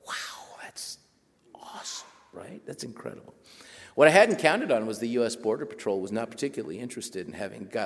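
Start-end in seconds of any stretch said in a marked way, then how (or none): 0.1-3.3 hushed whisper of amazement; whispered awe. Retold or imitated. Writer whispering his own amazed thought. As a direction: whisper it to yourself in wonder.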